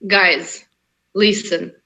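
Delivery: put-on strong Russian accent. Shown as a demonstration. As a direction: address them in a heavy Russian accent. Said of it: "could you say that with your Russian accent".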